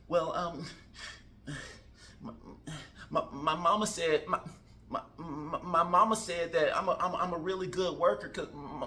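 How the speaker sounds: stammering, nervous candidate; nervous rambling. Acted. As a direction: trip over the words nervously. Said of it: "You come in mad nervous".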